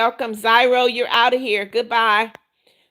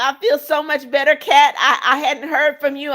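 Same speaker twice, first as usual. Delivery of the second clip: relieved laugh; 3 semitones higher than usual. Real, not acted.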